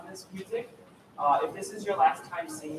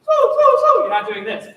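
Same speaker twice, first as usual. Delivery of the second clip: wrong mouth shape; 17 dB louder, much slower than usual. Shown as a demonstration. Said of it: "You'll notice that your teeth are separated".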